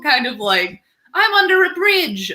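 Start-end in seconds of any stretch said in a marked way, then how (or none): 1.2-2.3 high, sing-song troll under a bridge; troll accent. Pretend. Host explaining her accent drifts into a troll voice. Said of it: "If you do an accent, it turns into this".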